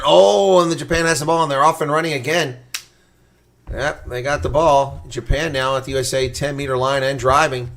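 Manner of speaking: sudden burst of excited rugby commentary; excited play-by-play. Real, not acted. Commentator as Japan runs off with the ball, excited.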